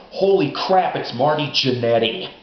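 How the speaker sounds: loud, high shout of recognition; excited recognition. Retold or imitated. Fan spots Marty Jannetty charging in, shouting excitedly. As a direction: holler it as the guest jumps the ring. Surprise guest appears with a chair.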